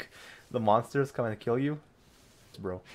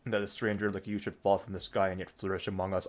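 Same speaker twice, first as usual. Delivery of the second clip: low, softer measured reading; dialogue read-aloud; 4 semitones lower, 5 dB quieter than usual. Acted. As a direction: read the character's line evenly and low. Reads game dialogue.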